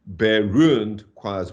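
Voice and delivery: unstressed "bare", heavy beat on "ruined"; awkward singsong beat landing on "ruined"; forced iambic stress. Shown as a demonstration. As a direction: force "bare ruined choirs" into da-dum, punching "ruined". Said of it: "to fit it into iambic pentameter".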